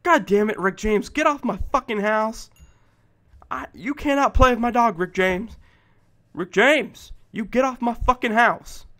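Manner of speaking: loud frustrated rant; angry yelling. Real, not acted. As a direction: chase it off his house angrily. Angry at mob on his house.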